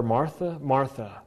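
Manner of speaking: softly chide, the name said low; tender, quiet reproof; gentle chiding. Acted. Jesus answering worried Martha, gently chiding. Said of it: "He's gently chiding her".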